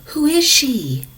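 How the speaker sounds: slow, hushed awed whisper. A narrator's reading. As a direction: breathe the question in wonder. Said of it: "Henry whispered".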